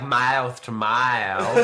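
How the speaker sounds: slow, drawn-out mock Australian; Australian accent sliding into southern US drawl; attempted Australian accent. Shown as a demonstration. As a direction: stretch the vowels in a southern-tinged Australian. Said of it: "I think they'd be like".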